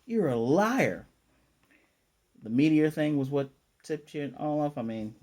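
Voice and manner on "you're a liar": blunt accusation. Retold or imitated. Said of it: "And Yuri goes".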